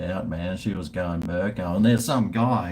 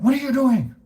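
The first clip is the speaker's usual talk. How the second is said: higher and louder mock shriek; much higher, louder take of the angry woman; shrieking shop woman; 5 dB louder than usual. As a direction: imitate her storming out and shrieking. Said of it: "She runs out".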